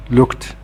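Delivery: "looked" ending in a voiceless t. Shown as a demonstration. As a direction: pronounce "looked" as one syllable, lookt. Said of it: "the E D is pronounced".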